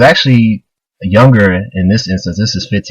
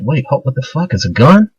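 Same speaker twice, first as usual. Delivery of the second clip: startled, higher-pitched what-the-hell; shocked disbelief; 5 semitones higher than usual. Acted. Mini-Me realizes the knife is a gun, startled. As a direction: caught off guard by a hidden gun.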